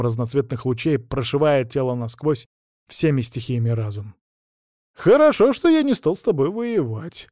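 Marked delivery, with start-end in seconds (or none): 4.9-7.3 nervous laugh. A narrator's reading. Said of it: "нервно посмеялся Кин".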